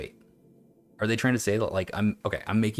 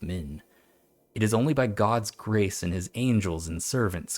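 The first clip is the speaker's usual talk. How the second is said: put-on old text reading; slower than usual. Streamer reads a warning about devils aloud, measured recital. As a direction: read it gravely, letting the endings drop away.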